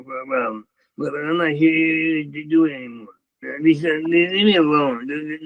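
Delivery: stammering, mock-wounded outburst; fake tears. Telling the staring guy to leave him alone, faked tears. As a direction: act hurt and tearful, tripping over the words. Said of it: "I'd do it again".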